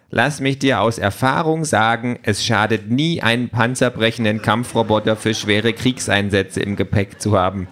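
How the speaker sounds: lightly voiced opinionated gadget. Talking tablet advises Peter on packing, lightly voiced know-it-all. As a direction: advise from experience, lightly in character. Voices Pink, the Quality Pad.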